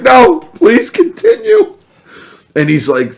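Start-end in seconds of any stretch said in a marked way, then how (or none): 0.0-1.8 very high, slow sarcastic invitation; sweetly sarcastic, savoring it; syrupy mock courtesy; mock polite. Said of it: "And I'm like".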